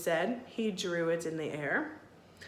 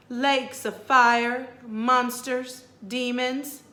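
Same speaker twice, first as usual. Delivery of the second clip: ominous ghost queen; 4 semitones higher, 7 dB louder, slower than usual. Acted. Ghost queen lists horrors.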